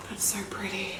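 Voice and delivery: soft gasp then a whispered line; awed whisper. Real, not acted. Admiring the shade to viewers, awed whisper. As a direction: breathe it out in awe.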